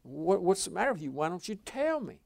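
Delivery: mildly exasperated, pitch climbing; acted frustrated husband demanding an answer. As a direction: plead in mock frustration without shouting. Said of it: "it makes you mad".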